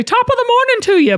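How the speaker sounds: a quick, high, hammed-up British accent; playful fake British lilt; British accent attempt. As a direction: chirp it like a bad British impression. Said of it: "Best British accent right now. Go".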